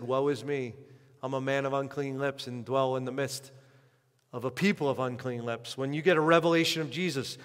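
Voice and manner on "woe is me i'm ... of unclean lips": quoting Isaiah. Retold or imitated. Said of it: "Like Isaiah said".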